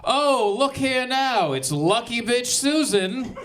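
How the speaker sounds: high, posh-free mock nature narration; British documentary narrator. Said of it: "it goes something like this".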